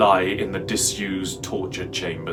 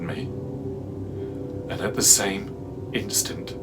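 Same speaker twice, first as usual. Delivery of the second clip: low, slow, softened narration; hushed horror; 4 semitones lower, 6 dB quieter than usual. A narrator's reading. Narrator trapped in the dark vault, hushed horror. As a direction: let it sink into dark, slow dread.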